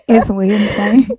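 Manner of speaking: Wednesday with a thick Southern twang, said "winse". Shown as a demonstration. Friend teased about her accent, repeats Wednesday in exaggerated Southern twang. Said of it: "It's my Southern twang".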